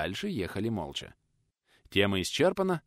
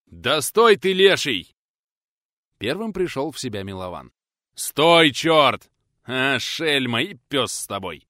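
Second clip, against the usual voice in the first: loud calls to stop; yelling after; 5 semitones higher, 10 dB louder, slower than usual. Acted. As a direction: yell after a reckless friend. Milovan yelling after friend.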